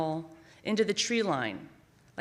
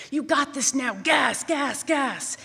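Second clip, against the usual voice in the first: excited cheer; 6 semitones higher, 5 dB louder, slower than usual. Retold or imitated. Dad cheering as car moves.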